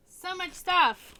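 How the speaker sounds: loud, slow and thrilled; excited outburst. Real, not acted. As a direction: stretch it out, overflowing with excitement. Excited burst about game clutter.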